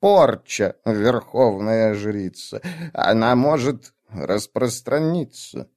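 put-on slow, hesitant old woman; old witch voice. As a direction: weigh each word like a nervous old witch. Witch character warns.

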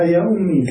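"يا أمي" ending on a long ee; silent final ya. Shown as a demonstration. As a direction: say "أمي" with an unvowelled ya. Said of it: "بالتسكين". (نطق "أمي" بتسكين الياء)

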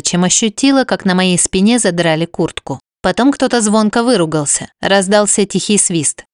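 plain reading voice

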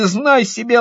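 ordinary delivery

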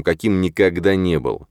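ordinary delivery

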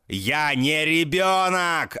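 slow, high, loud yell; yelling with all his might. A narrator's reading. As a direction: roar it as hard as you can. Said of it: "ору я изо всех сил".

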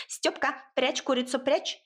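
ordinary delivery

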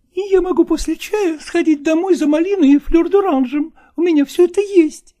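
high, eager female voice; eager woman. Acted. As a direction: press your offer, pitched high. Nastina offers.

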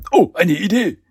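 high, loud, wide-eyed wonder; goofy reverent astonishment; awestruck amazement. A narrator's reading. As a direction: gasp it like a dim henchman amazed. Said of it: "Biob staunte ehrfürchtig".

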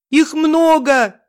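намного выше и громче, медленно; кричать в ужасе; крик. A narrator's reading. Сын кричит дальше. (сын кричит матери, намного выше и громче)

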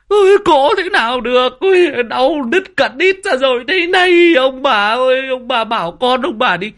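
daughter-in-law in labour cursing her husband Huynh, wailing; screaming curses in labour. Retold or imitated. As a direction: howl it at him as if the pain is his fault. Woman in labour screaming at in-laws.

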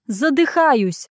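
a hint of a granny pretending she can't breathe; mock choking granny; granny fake wheeze. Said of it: "так страшно сипела и кашляла".

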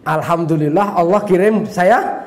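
puzzled, with a climbing final word; astonished echo. Retold or imitated. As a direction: repeat it back as an incredulous question. Preacher astonished by inmate's answer.

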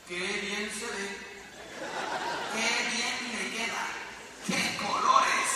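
laughing, gushing false compliments, ending in a whisper; mock fawning praise. Townsfolk flatter the naked king, laughing fake praise.

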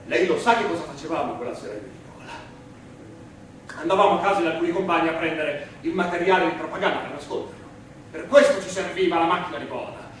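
loud, rising indignant appeal to the prosecutor; impassioned outcry. Acted. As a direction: hurl it at the prosecutor in protest.

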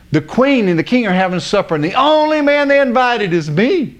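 high-pitched mock boasting; bragging. Haman boasting of supper with the queen, bragging. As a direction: crow proudly, playing the braggart. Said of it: "he's bragging".

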